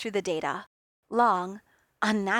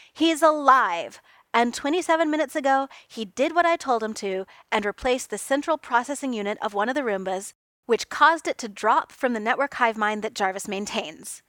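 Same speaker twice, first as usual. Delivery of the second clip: louder, clipped insistence; snapping; 2 semitones higher, 4 dB louder than usual. Acted. Tony snapping at Reed who doubts Clint is alive, louder. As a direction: bite back at the doubt. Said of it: "Tony snapped".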